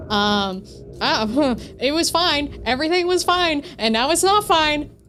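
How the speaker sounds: half-laughing alarm at what just happened; nervous laugh. Real, not acted. Panicked laugh at a game scare.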